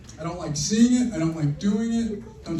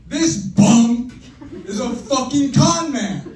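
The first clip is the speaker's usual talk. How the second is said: angry outburst; 6 semitones higher, 6 dB louder, slower than usual. Acted. Realizing he's been conned.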